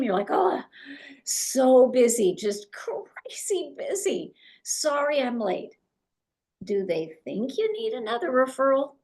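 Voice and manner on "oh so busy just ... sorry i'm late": breathless, high, rushed brag about being busy; frantic and busy. Retold or imitated. Agent rushing into a social event, frantic. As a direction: play the frazzled agent bursting in late. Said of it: "You're a little frantic".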